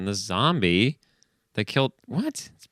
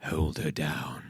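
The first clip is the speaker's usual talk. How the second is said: nervous priest; 4 semitones lower, 5 dB quieter, much slower than usual. Acted.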